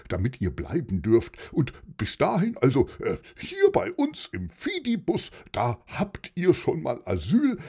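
lightly voiced helper, lively pitch swings with little ums; friendly helper character. Helper invites refugee children along to Frankfurt, lightly acted friendly voice. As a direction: offer help, lightly in character, hesitating as you go.

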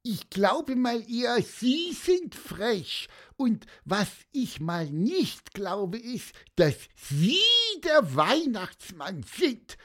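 high piping little bird, cheeky; squeaky bird voice. A narrator's reading. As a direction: pipe up like a tiny bird. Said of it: "piepste Pieper".

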